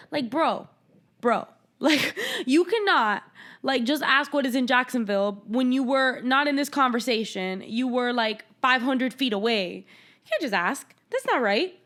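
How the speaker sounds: can't believe the nerve of him; exasperated disbelief. Real, not acted. Ranting to a friend, worked up and incredulous. Exasperated rant at Edward's question.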